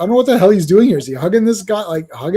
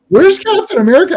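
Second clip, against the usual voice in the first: a much higher retold complaint; playing his own baffled self, pitched up; mock exasperated question; 10 semitones higher, 4 dB louder than usual. Viewer waiting for the hero to appear, in a high, mock exasperated voice.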